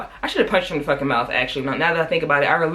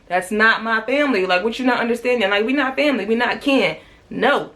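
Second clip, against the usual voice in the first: insistent, higher-pitched retold protest; indignant denial; 6 semitones higher than usual. Telling the guard they are not family, indignant denial. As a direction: push back indignantly, pitch up but no shouting.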